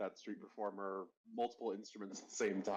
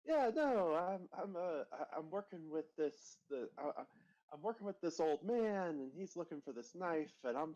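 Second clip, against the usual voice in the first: high character voice; 5 semitones higher than usual. Acted. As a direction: stammer like a jittery kid.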